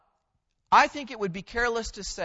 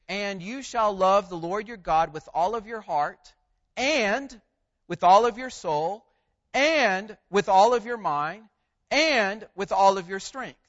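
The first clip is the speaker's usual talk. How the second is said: each phrase given equal weight, and rising louder; 6 dB louder than usual. Shown as a demonstration. Preacher to congregation, reading the verse with equal weight on each phrase. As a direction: read every phrase as equally important, building in force. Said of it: "So it would read like this".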